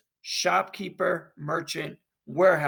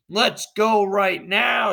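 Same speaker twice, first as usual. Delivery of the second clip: eager spectator; 5 dB louder, slower than usual. Acted. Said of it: "says Spectator Four".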